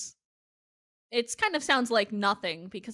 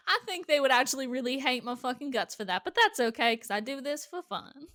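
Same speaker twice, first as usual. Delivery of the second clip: lightly put-on Texas twang; mock Texan, amused; Texas accent. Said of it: "hate on my accent".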